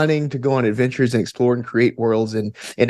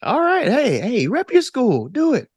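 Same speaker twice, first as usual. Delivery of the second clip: much higher, playful hype; excited cheer; 10 semitones higher than usual. Real, not acted. Guest urging the host to rep his school, excited cheer. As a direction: egg him on, cheering.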